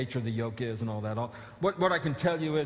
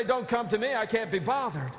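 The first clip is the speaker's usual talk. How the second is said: dismissive; 9 semitones higher, 4 dB louder than usual. Pretend. Dismissive imagined Christ.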